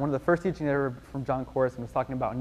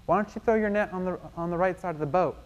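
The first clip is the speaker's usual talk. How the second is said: higher-pitched call across the water; lightly acted shout of friendly advice; calling out suggestion; 5 semitones higher than usual. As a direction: pitch it up as if hailing a boat. Man calls advice to fishermen.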